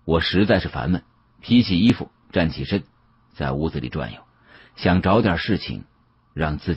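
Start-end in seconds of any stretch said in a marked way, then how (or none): none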